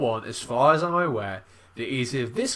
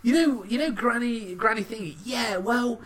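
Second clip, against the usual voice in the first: higher, hesitant fumbling dad; awkward dad; 8 semitones higher, 6 dB louder than usual. Retold or imitated. Father telling grown son granny is his mother, fumbling. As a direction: stumble through awkward news as dad.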